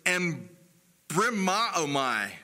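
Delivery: "embrimaomai" sounded out slowly in pieces; Greek pronunciation. Shown as a demonstration. Preacher teaching congregation the Greek word "embrimaomai", slow careful pronunciation. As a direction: say "embrimaomai" carefully, pausing after the first syllable. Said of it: "the Greek word is".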